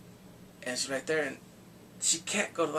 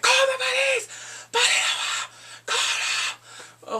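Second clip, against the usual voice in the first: loud, high urgent yelling; yelling at the screen; 4 dB louder, much slower than usual. Real, not acted. Viewer begging the heroine to call the police, loud yell.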